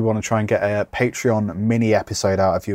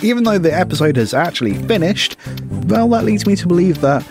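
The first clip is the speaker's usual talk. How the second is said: upbeat advert voiceover; ad read. Acted. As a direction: read it like a podcast ad. End-of-show advert read.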